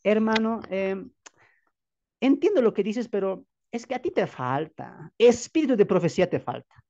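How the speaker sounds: a lightly voiced know-it-all leader correcting a brother; condescending, a touch of mock pity; mimicking a smug leader. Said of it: "y dirá".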